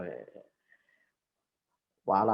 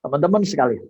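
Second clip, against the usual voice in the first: rousing speech to students, raised voice; formal speech; 4 semitones higher, 6 dB louder than usual. Shown as a demonstration. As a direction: address the crowd like a rally speaker. Demo of a speech opening.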